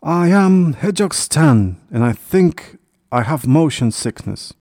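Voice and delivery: high, loud little hedgehog voice; queasy passenger crying out; alarmed hedgehog. A narrator's reading. Hedgehog cries out on bumpy ride.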